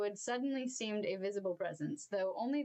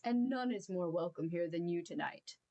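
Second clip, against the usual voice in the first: gentle welcome; 3 semitones lower than usual. Acted. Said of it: "with a sudden gentleness".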